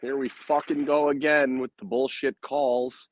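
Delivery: ordinary delivery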